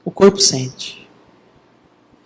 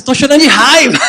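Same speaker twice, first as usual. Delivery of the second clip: angry crying; 5 semitones higher, faster than usual. Retold or imitated. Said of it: "E aí ela chorando no chão".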